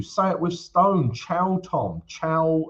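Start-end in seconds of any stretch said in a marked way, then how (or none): 1.1-2.6 mock Italian accent. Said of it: "my beautiful Italian accent".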